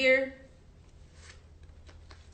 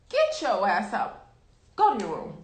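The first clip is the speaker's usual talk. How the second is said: scolding the dog; 3 dB louder than usual. Real, not acted.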